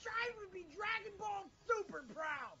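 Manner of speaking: emphatic slow declaration; slow proud shout. Real, not acted. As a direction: draw it out proudly. Punchline after false starts.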